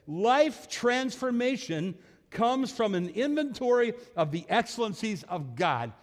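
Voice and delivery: slow, high and loud, each word weighed; slow quoted line. Retold or imitated. Preacher quotes Keller slowly, high and loud. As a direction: savor the phrase like a quote on a plaque. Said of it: "And then he says".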